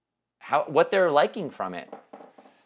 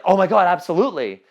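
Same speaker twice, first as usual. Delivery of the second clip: enthusiastic client; 6 semitones higher, 5 dB louder than usual. Retold or imitated. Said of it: "just listen to what they say".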